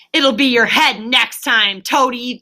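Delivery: slow, mocking threat called out; taunting call. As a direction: jeer after him. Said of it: "the stoats called after him".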